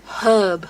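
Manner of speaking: herb with the H sounded, British way. Shown as a demonstration. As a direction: say herb with a clear H. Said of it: "H E R B".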